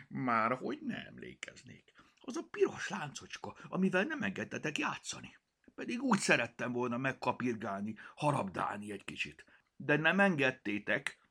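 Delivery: a cat's sulky grievance; offended. Acted. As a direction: pout as you remind them. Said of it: "emelte fel sértődötten a fejét".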